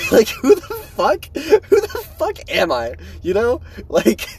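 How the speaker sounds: amused disbelief at himself; incredulous laughing. Real, not acted. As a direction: laugh at the absurdity, voice cracking up high. Laughing at his own situation.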